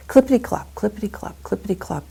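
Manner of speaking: rhythmic clippity-clop at full voice; hoofbeat sound words. Shown as a demonstration. Miser waking to horses going to market, rhythmic hoofbeats. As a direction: patter it out like passing horses. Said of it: "I like sounds".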